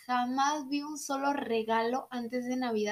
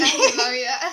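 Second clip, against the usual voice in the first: louder, mock-wise; louder repeat; 7 dB louder than usual. Shown as a demonstration. Friend repeats the moral louder, mock wise. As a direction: say it again, louder. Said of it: "repeats it louder".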